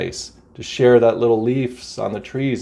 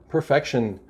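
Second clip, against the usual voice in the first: quiet musing; 7 dB quieter than usual. Shown as a demonstration. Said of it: "let's take a spiritual light view".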